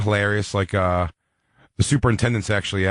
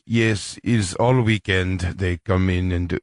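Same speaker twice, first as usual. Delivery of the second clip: frustrated Russian superintendent, slowed and lowered; Russian accent; 4 semitones lower, slower than usual. Acted. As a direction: put on a slow, weary Russian accent. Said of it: "he's a Russian guy who just".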